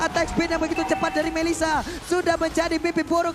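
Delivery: fighting game announcer. Real, not acted. Caster still hyped after the fight.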